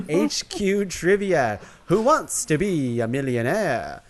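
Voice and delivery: a hint of Dracula, slow and drawn out; lightly put-on, slow vampire announcer. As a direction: read the list like a mock vampire. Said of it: "I'm doing a Dracula voice".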